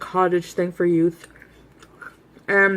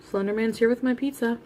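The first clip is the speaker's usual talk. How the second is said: laughing; 4 semitones higher, 5 dB quieter than usual. Real, not acted. Repeats joke while laughing.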